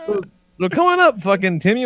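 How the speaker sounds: high, fake-excited cheer; mock enthusiasm. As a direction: hype it up with sarcasm. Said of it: "And I'm like".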